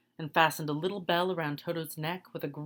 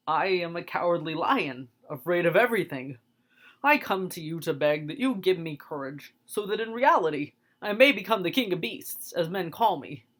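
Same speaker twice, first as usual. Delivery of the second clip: cowardly lion pleading; 4 dB louder than usual. Acted. Lion begs the wizard for courage, pleading. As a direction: beg like a timid lion wanting courage.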